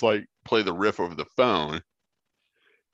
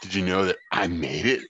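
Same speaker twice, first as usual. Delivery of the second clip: put-on German accent. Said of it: "I have a German accent for my criticizing inner voice".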